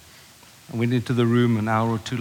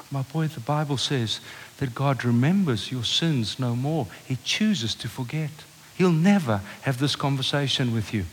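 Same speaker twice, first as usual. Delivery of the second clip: tender; 2 semitones lower, 3 dB quieter than usual. Retold or imitated. Father reassuring his son.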